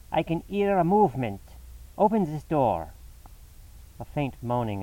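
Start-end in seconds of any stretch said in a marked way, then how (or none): 0.1-2.9 higher, louder urgent demand; urgent call. A narrator's reading. Lestrade at the locked door demands it opened, urgent. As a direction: demand they open up. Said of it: "cried Lestrada".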